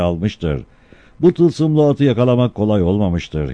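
town crier. Acted. Crier reads the proclamation.

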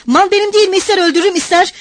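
high, angry owner's retort; defiant shout. A narrator's reading. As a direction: yell back that nobody can stop you. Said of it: "Mikolka da bağırıyordu".

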